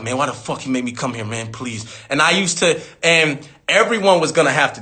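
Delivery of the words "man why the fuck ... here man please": whiny plea. Retold or imitated. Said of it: "I used to get mad at my dad, like".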